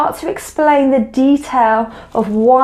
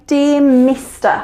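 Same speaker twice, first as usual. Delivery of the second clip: slow demo; slower than usual. Shown as a demonstration. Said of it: "Or you might say".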